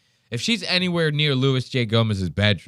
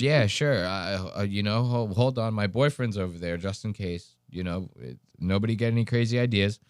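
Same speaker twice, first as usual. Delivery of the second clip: hesitant, trailing off low and soft; mock nervous, halting and lowered; imitating nervous contestant; 4 semitones lower, 4 dB quieter than usual. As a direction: stammer through it like an uneasy woman, getting quieter. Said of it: "She's, like, shaking".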